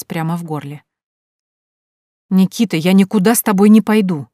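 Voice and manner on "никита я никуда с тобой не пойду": loud indignant refusal. Acted. Heroine refusing Nikita, loud and indignant. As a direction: snap back at him, fed up. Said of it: "возмутилась я".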